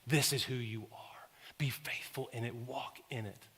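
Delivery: a hushed, breathy whisper of reassurance; whispered promise. Acted. Jesus voiced whispering to listeners.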